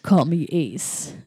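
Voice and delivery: slow, low movie-hero delivery; a hint of a buff rooster hero; cool hero line. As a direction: say it like a cheesy action hero. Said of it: "And he's like".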